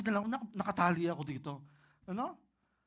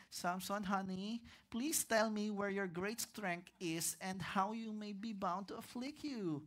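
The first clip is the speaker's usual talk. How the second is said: soft coaxing Delilah; 7 dB quieter, slower than usual. Acted. Delilah coaxing Samson in Bible reading.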